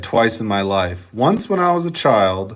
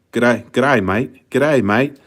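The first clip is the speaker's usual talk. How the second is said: rough stab at an Australian accent; casual put-on Australian accent. Shown as a demonstration. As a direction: greet them in an Aussie accent. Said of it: "I used to have Australian accent".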